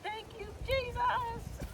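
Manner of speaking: slow high laughing relief; laughing thanks. Real, not acted.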